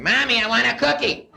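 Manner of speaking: mock tantrum aimed at mommy; kid yelling for cookie.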